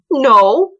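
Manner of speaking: high, emphatic denial; loud refusal. A narrator's reading. Boy answering the girl's scolding, loud high refusal.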